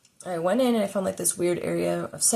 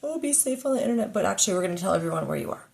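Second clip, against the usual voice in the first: mock companies voice; 2 semitones higher, faster than usual.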